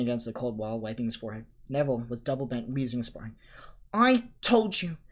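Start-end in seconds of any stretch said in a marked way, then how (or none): 3.9-5.0 breathless gasping whisper. A narrator's reading. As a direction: gasp it out, winded. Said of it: "Hermione gasped".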